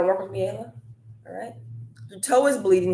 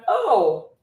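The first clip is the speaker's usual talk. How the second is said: high, laughing mock voice of a buyer who gets it; mock customer voice, pitched way up, laughing and a bit louder; realizing buyer; 13 semitones higher, 3 dB louder than usual. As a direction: play the customer suddenly seeing the problem, giggling. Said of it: "They're like".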